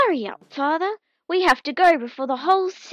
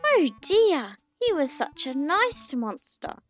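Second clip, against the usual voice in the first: grief-stricken; 6 semitones higher than usual. Acted. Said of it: "a very grief-stricken Puff Junior".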